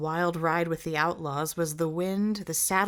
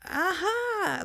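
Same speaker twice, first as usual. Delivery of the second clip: chuckled; 14 semitones higher than usual. A narrator's reading. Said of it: "the sentry chuckled".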